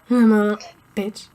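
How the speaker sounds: giggling through it; laughing. Real, not acted. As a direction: laugh while saying it. Laughing at own joke.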